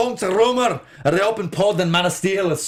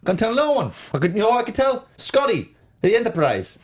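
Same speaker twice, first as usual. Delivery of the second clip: Scottish accent; 3 semitones higher than usual. Shown as a demonstration. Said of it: "Pretty much nailed it".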